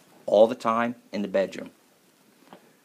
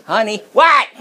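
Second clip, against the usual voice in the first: worried husband, laughing; 7 semitones higher, 5 dB louder than usual. Retold or imitated. Husband asks withdrawn wife.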